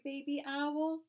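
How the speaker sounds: high eager squeal of a question; excited cry. Acted. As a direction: ask it bursting with excitement. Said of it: "cried Tiny Chick".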